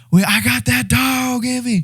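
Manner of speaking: high, slow, hyped-up call to a teammate; hyped-up yelling. Retold or imitated. Pumping up his teammate mid-race, hyped shout. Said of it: "We're screaming at each other".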